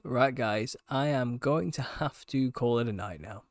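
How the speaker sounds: worn-out hoarse voice, a bit slow. Real, not acted. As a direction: voice nearly gone after a long talk. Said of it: "my voice is gone".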